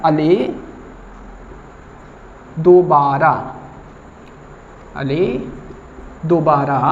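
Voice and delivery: light mock lisp of a sleepy customer; lisping friend. Lisping customer yelps at the barber after the cut, mildly. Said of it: "तोतला मित्र था".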